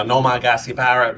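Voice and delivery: exaggerated New England accent, R's dropped; mock a thick New England accent. Shown as a demonstration. Showing the thick accent they avoid, New England accent. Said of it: "not a really thick".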